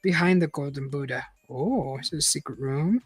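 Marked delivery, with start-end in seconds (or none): 0.0-1.2 measured read-aloud narrator; story narration. A narrator's reading. Reader telling listeners an adventure story, measured narration.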